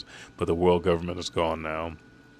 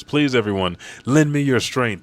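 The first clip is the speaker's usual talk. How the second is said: louder, earnest mock appeal; retold tearful plea; 5 semitones higher, 4 dB louder than usual. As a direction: beg the crew for help, lightly acted. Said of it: "as he cries to the rest".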